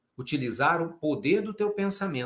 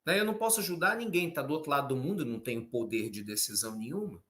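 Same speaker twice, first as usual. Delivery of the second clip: imitating excuse-makers; 5 dB quieter than usual. Preacher mimicking people who say they can't help, mock excuse-making. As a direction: rattle off the excuse, then let it fade. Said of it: "muita gente que fala".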